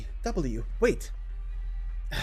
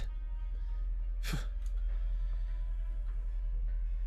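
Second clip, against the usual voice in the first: long breathy sigh; drawn-out exhale; heavy exhale; 3 dB quieter than usual. Acted. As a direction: let out a long, voiceless breath. Hiding from pursuers.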